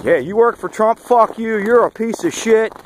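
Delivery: imitating a hostile heckler, pitched well up; high-pitched imitation of an abusive kid; retold angry heckling. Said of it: "I got accosted by a kid".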